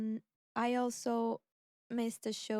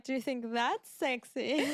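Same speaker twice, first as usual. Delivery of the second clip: sassy comeback; 2 semitones higher, 4 dB louder than usual. Retold or imitated. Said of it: "She pointed at the woman and she was like".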